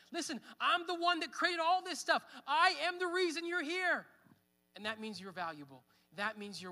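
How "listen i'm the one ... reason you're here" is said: God speaking. Acted. Pastor voicing God's claim.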